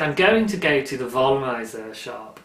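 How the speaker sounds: lightly put-on German accent; faux German accent. Quoting friend's trip to the yarn shop, faux German accent. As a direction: slip into a mock German accent. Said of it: "rest of that sentence was a German accent".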